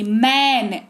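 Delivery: मैन with a clear ए sound; pronunciation demo. Shown as a demonstration. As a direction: model मैन slowly. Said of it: "ए सुनाई दे रहा है". (मैन में ए की ध्वनि)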